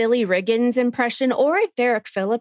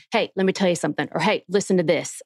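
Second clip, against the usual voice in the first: Kyle Chandler impression; 2 semitones lower, faster than usual. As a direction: lean in like a serious coach. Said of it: "your Kyle just then, that was spot on".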